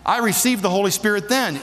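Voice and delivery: lightly voiced objecting congregant; a hint of a questioner pushing back; doubting churchgoer. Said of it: "people say".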